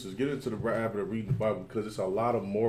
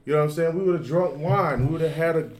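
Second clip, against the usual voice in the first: higher, eager Laban describing the feast; lightly voiced festive Laban; Laban on the party; 5 semitones higher, 6 dB louder than usual. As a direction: sell the celebration he missed. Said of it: "He's basically saying".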